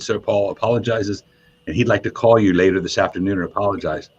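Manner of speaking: a touch of mimicked English accent. Tour manager passing on an apology, light English accent. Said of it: "a man on the phone had an English accent".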